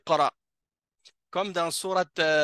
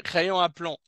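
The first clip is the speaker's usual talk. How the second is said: wrong phrase; 4 semitones higher than usual. Shown as a demonstration. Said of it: "On dit crayon de plomb".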